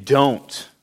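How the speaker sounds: "Don't" set apart as a firm command; all-caps emphatic. Retold or imitated. Preacher voicing God's prohibition to his people, emphatic. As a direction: put firm stress on "Don't". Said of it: "in all caps, exclamation mark".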